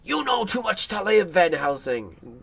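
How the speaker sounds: lightly acted menace, not shouted; mock anger. Madman threatening the professor, imitated near-anger. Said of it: "plays him as almost angry".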